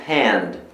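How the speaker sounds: "hand" opening on an aspirated H; "hand" with audible H at the start; breathy English H. Shown as a demonstration. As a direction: say the H in "hand" like a Brazilian initial R. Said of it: "tem o nosso som de R".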